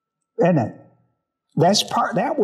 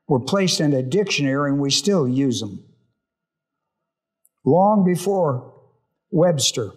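lower-pitched, measured public prayer; 4 semitones lower than usual. Real, not acted. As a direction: lead the group in prayer, pitched low. Leads the group in prayer.

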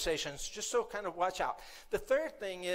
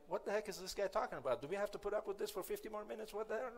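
bored inner grumbling; 6 dB quieter, faster than usual. Retold or imitated. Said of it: "a minute ago you were like".

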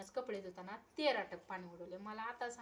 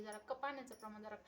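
retold scolding; 5 semitones higher than usual. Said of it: "मला ओरडले की".

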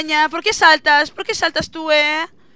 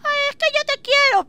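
melodramatic lover; 10 semitones higher than usual. Acted. Acted creeper romance scene.

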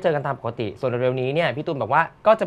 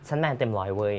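lower, softer tough-guy boast; mock macho; 7 semitones lower, 6 dB quieter than usual. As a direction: play the hundred-percent man, tongue in cheek. Boasting being fully macho. (เสียงแมนๆ แกล้งทำ ทุ้มต่ำลง)

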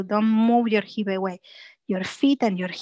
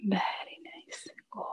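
soft praise; 3 semitones lower, 11 dB quieter than usual. Real, not acted. Praise during the stretch.

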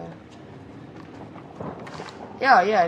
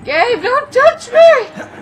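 terrified shout; 8 dB louder, much slower than usual. Real, not acted. Screamed take.

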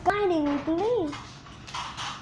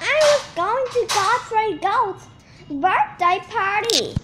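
grumbling; 6 semitones higher than usual. A narrator's reading. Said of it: "Gertie grumbled".

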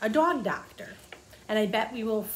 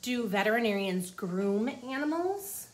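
put-on reading to children. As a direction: clear storybook read-aloud. Reading the book aloud.

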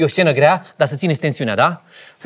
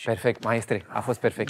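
whispered praise; 6 semitones lower, 11 dB quieter than usual. Real, not acted.

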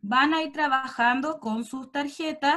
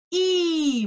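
modelled vowel; 4 semitones higher, 4 dB louder than usual. Shown as a demonstration. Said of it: "díganlo".

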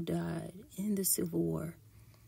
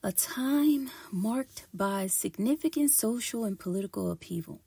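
measured, emphatic documentary-style read; formal read-aloud delivery; scripted history narration. Acted. Reads a prepared history script.

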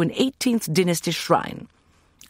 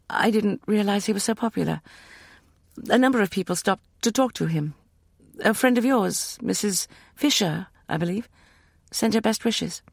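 higher, polite and careful; a girl answering warily; a hint of a shy young woman; young woman's voice; 7 semitones higher than usual. A narrator's reading.

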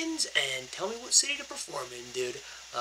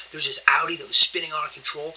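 fast excited whisper; rushed hushed whisper; 7 dB louder, faster than usual. Real, not acted. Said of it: "I gotta be a little bit quiet".

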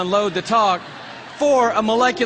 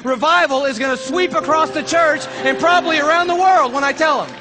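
higher, overblown solemn pledge; mock-earnest promise; 5 semitones higher than usual. Preacher humoring the biologist, mock-earnest promise. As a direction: pledge grandly, humoring the enthusiast.

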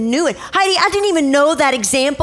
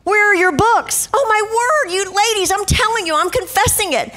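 sarcastic; 5 semitones higher than usual. Retold or imitated. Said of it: "I said".

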